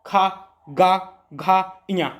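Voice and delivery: "खा, गा, घा, इया" sounded one by one from the throat; spaced drill of "खा" "गा" "घा" "इया"; teacher repeating "खा गा घा इया" for students to copy; guttural sounds demo. Shown as a demonstration. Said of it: "बोल के देखो का".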